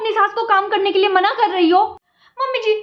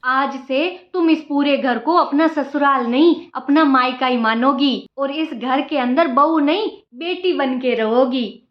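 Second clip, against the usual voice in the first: lightly lowered, motherly mother-in-law voice; 3 semitones lower, slower than usual. Acted. Mother-in-law grandly telling the new bride how things will be, lightly lowered voice. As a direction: play the sweet-talking saas.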